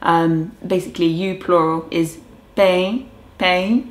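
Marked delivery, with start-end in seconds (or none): 2.6-3.8 "pe" with a little nasal sound. Shown as a demonstration. Teaching viewers the Guarani you plural, nasal. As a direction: nasalise the "pe" gently. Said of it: "a little nasal".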